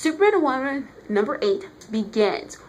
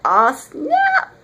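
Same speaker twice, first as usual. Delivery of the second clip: loud, higher-pitched mock amazement; punchy, raised-voice wow; hyped reaction; 4 semitones higher, 6 dB louder than usual. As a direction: burst out like a thrilled fan. Acts out own thrilled reaction.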